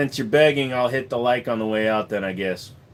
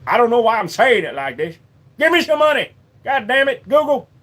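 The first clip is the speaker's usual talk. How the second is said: squeaky begging voice; 10 semitones higher, 7 dB louder than usual. Pretend. Mock begging Google.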